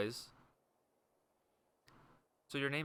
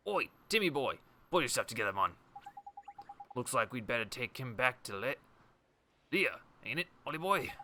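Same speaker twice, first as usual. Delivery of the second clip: lightly voiced British local calling out; a chummy neighbourhood geezer, louder; hint of a cockney bloke; 4 semitones higher, 4 dB louder than usual. Same gruff character again.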